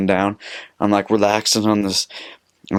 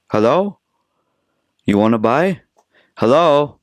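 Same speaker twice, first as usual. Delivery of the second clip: high, questioning hawker's call; mock a vendor pestering for attention; put-on sing-out, pitch swooping up; persistent vendor imitation; 5 semitones higher than usual.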